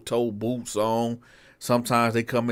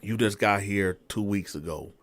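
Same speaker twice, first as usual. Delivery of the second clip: hushed aside to the captain; soft, fast confidential aside; sergeant pulling him aside; 4 semitones lower, 7 dB quieter than usual. Retold or imitated. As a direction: keep it low, just between us. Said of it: "This the sergeant talking".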